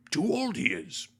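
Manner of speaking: high creature croak, falling at the end; Yoda. Retold or imitated. Yoda refusing Luke to Ben, dismissive creature voice. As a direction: croak a dismissive puppet-sage verdict. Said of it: "But he's just like".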